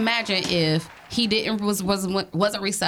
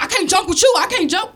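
louder, higher whiny son; mock whining son; 8 semitones higher, 6 dB louder than usual. Son complaining to his mom that he can't joke, louder whine. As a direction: play the sulky son raising his voice. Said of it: "he like".

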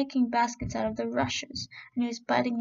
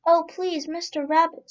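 put-on pleading old woman; 5 semitones higher, 5 dB louder than usual.

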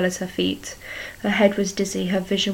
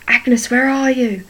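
slow, louder and higher call for a lost love; anxious call; 5 semitones higher, 7 dB louder, slower than usual. A narrator's reading. Henrietta searching the burning barn for Agnes, anxious calling. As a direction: call her name into the flames, searching.

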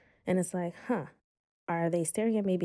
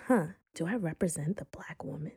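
whispered inner thought; 5 dB quieter than usual. Retold or imitated.

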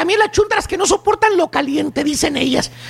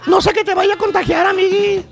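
mock sick voice. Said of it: "con voz de enferma".

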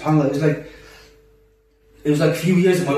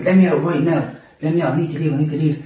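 mild mock yell, voice raised a little; retold screaming; 3 semitones higher than usual. Trying to leave and blocked, mildly imitated screaming. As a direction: plead to get out, half-hearted scream. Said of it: "I am screaming".

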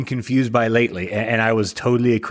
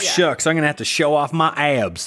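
hint of a Southern Arkansas accent; 4 semitones higher than usual. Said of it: "That's also my Arkansas accent, apparently".

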